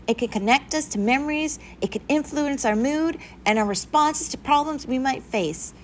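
high-pitched instructive teacher voice; pointed little speech to the class; earnest teacher. A narrator's reading. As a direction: address the young pupils with lifted voice.

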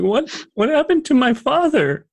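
put-on high, pleading child's voice; a girl close to tears, begging for news; tearful young girl. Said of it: "she's starting to tear up".

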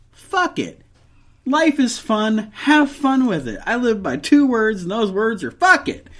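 animated, high-pitched mock exasperation rising to emphatic cheer; acted pep talk. Telling complaining people to lighten up, animated and emphatic. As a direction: pitch jumps up on each punchy phrase. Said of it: "you have to be like".

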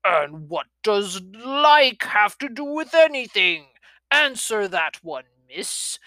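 put-on a cranky old dragon scolding a child; growling grandfather dragon.

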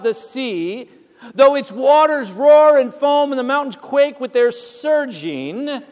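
measured, resonant Bible reading; scripture reading. Acted. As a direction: proclaim the psalm to the congregation.

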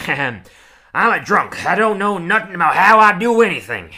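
over-the-top cowboy voice, shouted; Rich Texan impression. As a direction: holler like a rowdy rich Texan tycoon. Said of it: "we'll do my impression".

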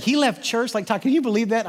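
amazed. Retold or imitated. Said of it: "my wife looked and she said".

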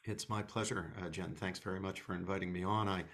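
hoarse, croaky voice from a cold. Real, not acted. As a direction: speak through a sore, croaky throat. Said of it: "apologizing for my croaky voice".

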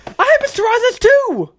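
excited outburst. Real, not acted. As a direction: burst in high with delighted recognition. Sudden discovery of shared teacher.

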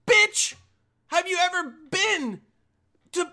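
high, loud indignant shout; comic outraged yelling; exasperated outburst. Acted. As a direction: yell it at her in disbelief.

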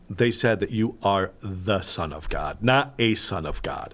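the Son, with the slowed and weighted; slow, deliberate contrast of the and a; stress on the. Shown as a demonstration. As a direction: lean on the in the Son, then on not a son. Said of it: "that one very important word, "the".

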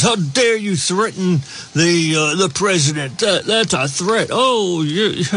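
mock outrage. Radio host mocking critics of the Florida representative, indignant. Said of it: "A lot of people got up in arms".

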